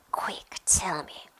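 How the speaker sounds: slow, rasped order; caretaker's demand. A narrator's reading. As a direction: press for an answer in a rough half-whisper. Filch interrogates Peeves in a story.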